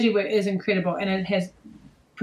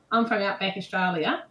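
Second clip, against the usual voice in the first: shaky attempt at an Australian accent. Shown as a demonstration. Guest retries outback introduction, unsure Australian accent. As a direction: have another go at sounding Australian. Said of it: "I can't do Australian accent".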